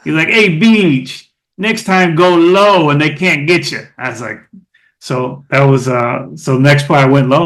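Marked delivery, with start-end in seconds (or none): 0.3-3.9 a touch higher, lightly voiced teammate calling out; light imitation of a teammate giving advice; imitating Brad. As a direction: mimic the running back's easy tip in the huddle. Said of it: "He used to talk like that".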